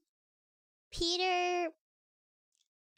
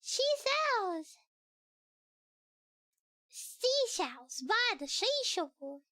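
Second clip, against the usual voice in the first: put-on British accent; slower than usual. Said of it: "reading it with a British accent".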